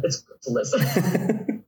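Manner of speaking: slow, breaking into laughter; amused teasing. Retold or imitated. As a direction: drag out the joking lesson and laugh. Joking comeback to confused players.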